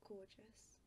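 soft breathy whisper; hushed awe; awed whisper. Real, not acted. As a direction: whisper it in wonder. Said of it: "whispers in awe".

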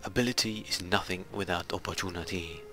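put-on French accent for a famous saying. Gamer quoting a motto to viewers, put-on French accent. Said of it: "I did it in French accent".

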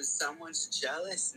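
smirking. Acted. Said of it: "Nikki smirked".

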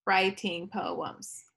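Writing poems drawn out very slowly, syllable by syllable; counting beats. Shown as a demonstration. Teacher counting the title's beats for the class, very slowly. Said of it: "four beats".

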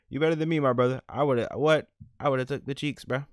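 loud, high hyped-up call to bro; excited yelling at his buddy; hyped shout. Real, not acted. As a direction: shout it out, cracking up.

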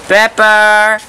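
loud call across the room; calling from far away. Real, not acted. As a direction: call out the name, high and loud. Calling the dog from afar.

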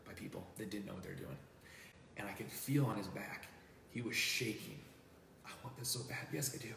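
choked-up and soft; holding back tears. Real, not acted. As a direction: fight back tears as you tell it. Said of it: "I'm not holding back tears".

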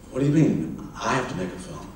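mildly taken-aback question, rising at the end; retold incredulity. Writer questions the director's demand to make a film, mildly incredulous. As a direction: echo the demand back as a puzzled question.

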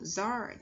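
"zart", the final S joined onto "art"; linked sounds. Shown as a demonstration. Teacher demonstrating linking, "zart" as one joined syllable. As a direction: carry the consonant into the vowel, giving "zart". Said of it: "chúng ta nối âm".

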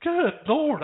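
high, shocked cry; patient reacting to the nurse's snub, high and shocked; shocked exclamation. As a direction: gasp it out, caught off guard, high. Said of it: "I was like".

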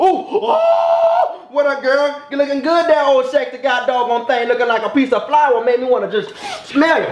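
high, hyped catcaller hollering at a woman; catcalling street guy. Acted. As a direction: holler at her like a corner flirt.

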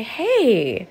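put-on kneel down and calm an upset child; gentle, validating parent. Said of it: "look that child in the eyes and say".

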